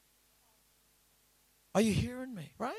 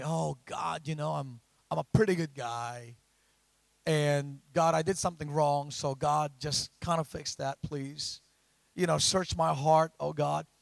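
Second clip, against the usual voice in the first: imitating self-satisfied prayer. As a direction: play your old pious self, casually asking God. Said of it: "I used to read the scripture this way".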